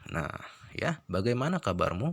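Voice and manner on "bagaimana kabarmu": "Bagaimana kabarmu" as an unemphatic question; question, not high. Shown as a demonstration. Teacher repeating the question example for students, unraised intonation. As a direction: keep "Bagaimana kabarmu" at everyday pitch. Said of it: "Berarti intonasinya tidak tinggi".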